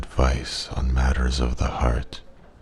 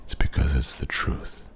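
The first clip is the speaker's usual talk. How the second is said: whispering; 6 dB quieter than usual. Acted. Closing truth, whispered softly.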